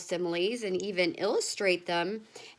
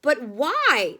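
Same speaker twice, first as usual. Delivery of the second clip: loud, higher question; shouting; 5 semitones higher, 7 dB louder than usual. A narrator's reading. Family shouting at Wonka over the wind, loud question. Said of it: "they all shouted at once".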